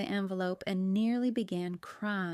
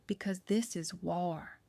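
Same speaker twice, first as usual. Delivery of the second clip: soft, slow and hushed; whispered; 3 semitones lower, 5 dB quieter than usual. A narrator's reading. Michelle warning Mama that it is war, whispered. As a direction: keep it low and measured, near a whisper. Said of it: "she whispered".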